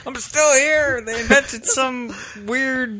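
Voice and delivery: put-on high, slow, creaky old man voice. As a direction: play an ancient man kept alive. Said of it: "Very old man".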